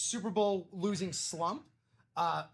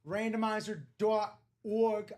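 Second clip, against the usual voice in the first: accidental Boston accent, a bit louder; 2 semitones higher, 5 dB louder than usual. Real, not acted. Host reading out the randomizer site, Boston accent. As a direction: slip into Boston on "dot org". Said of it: "I don't know why I went Boston accent".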